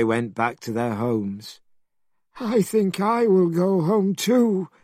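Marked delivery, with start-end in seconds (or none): 2.4-4.7 high, sheepish pig voice; Pigsy's voice. A narrator's reading. Pigsy telling Monkey he wants to go home, high and sheepish. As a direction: sneak away in a high voice.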